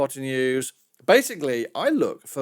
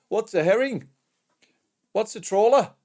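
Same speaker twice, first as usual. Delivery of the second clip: higher, louder mock British accent; bad British accent; 7 semitones higher, 4 dB louder than usual. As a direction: imitate puzzled students in a bad British accent. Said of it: "did that in a really bad, uh, British accent".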